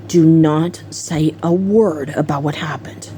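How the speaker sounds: low, measured warning; imitated threat to keep silent; retold stern warning. Retold secret warning before door opens.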